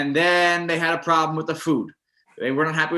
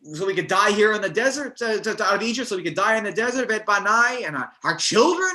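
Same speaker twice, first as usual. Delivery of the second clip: higher, hammed-up whiny complaining; grumbling complaint; 5 semitones higher than usual. The people complaining to Moshe, hammed-up whine. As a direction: lay on the self-pity, mock grumbling. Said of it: "they were grumbling and they were complaining".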